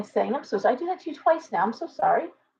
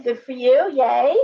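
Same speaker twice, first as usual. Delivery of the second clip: normal talking voice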